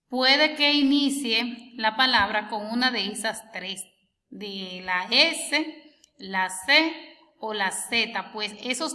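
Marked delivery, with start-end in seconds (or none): 4.3-8.3 S, C and Z named very slowly one by one; slow letter naming. Shown as a demonstration. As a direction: spell out the three letters slowly. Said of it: "cuando una letra suena s". (la S, la C, la Z, muy despacio)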